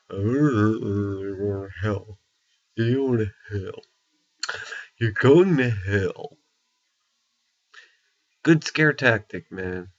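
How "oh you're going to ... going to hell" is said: slow, mocking sneer of doom; sarcastic. Born-again Christians condemning a stranger on the street, sarcastic. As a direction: drag it out like a smug preacher. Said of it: "saying it so sarcastically".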